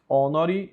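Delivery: "honori" starting straight on the O, "onóri"; silent H. Shown as a demonstration. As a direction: drop the H of "honori". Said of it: "ele é mudo". ("honori" com o H mudo)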